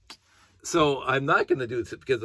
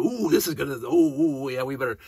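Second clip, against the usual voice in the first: higher, louder mock-excited oohs; aroused Klingons; 3 semitones higher, 6 dB louder than usual. Klingons hearing a sexy voice, played with mock excitement. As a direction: ham up the flustered Klingons reacting to a sexy voice. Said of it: "they're all turned on because there's this really sexy voice".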